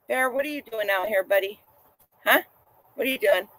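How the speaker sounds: hushed, gentle words to a dog; soft dog talk. Real, not acted. To Bear the dog wandering in, spoken softly.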